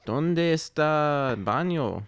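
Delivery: Spanish accent. Shown as a demonstration. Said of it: "Do you have a Spanish accent".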